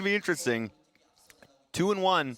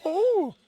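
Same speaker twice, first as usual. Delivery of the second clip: high sour yelp; 5 dB louder than usual. Real, not acted. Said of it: "I've had sour candy".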